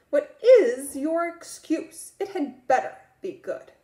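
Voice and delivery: a scolding schoolteacher, lightly voiced; stern teacher. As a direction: tell off the late boy. Miss Block scolding late Marco.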